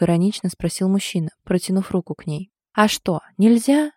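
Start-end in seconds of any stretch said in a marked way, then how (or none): 2.8-3.9 indignant. A narrator's reading. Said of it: "возмутилась Ляля".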